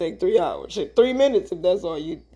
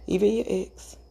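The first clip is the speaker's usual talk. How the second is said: whisper. Real, not acted. Teasing whisper about the ex.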